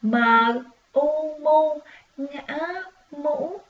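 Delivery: high lilting U, mu, ngã, mũ; sing-song spelling. Shown as a demonstration. Teacher spelling mũ with the class in a high sing-song. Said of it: "Mình cùng đánh vần với cô nè".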